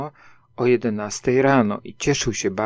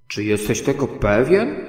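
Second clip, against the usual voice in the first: even more surprised; 4 dB louder than usual. Acted. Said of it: "jeszcze bardziej zdziwiony".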